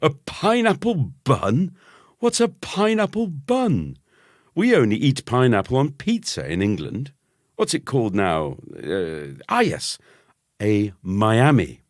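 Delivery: very high, sneering cousin; mock the bun haughtily. A narrator's reading. Cousin mocking the boy's pineapple bun, high and sneering.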